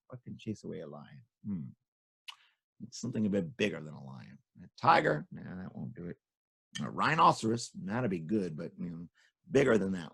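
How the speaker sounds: low, hushed thinking voice; musing aloud. A narrator's reading. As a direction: mull it over softly, ending in near-whisper.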